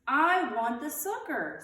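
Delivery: put-on slow, high, loud child's scream. A narrator's reading. Ramona screaming at Beezus for the sucker. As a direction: wail it like a tantrum. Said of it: "screamed Ramona".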